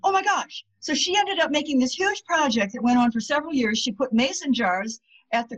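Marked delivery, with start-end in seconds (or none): 0.0-0.7 high, a lightly acted gasp of wonder; amazed realisation. Woman at the seminar, suddenly amazed by the penny idea. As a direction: let the idea hit her. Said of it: "She said".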